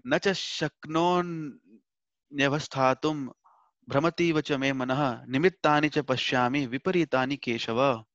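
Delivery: slow, measured Sanskrit chant, opening in a whisper; verse recitation. Acted. Teacher reciting the Gita verse to his class, slow and reverent. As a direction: intone the shloka slowly and reverently.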